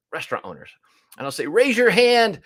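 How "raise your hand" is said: calling out. Retold or imitated. Addressing conference audience.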